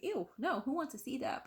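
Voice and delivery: mock recoil at the very idea; acted disgust. Recoiling at idea of watching birth.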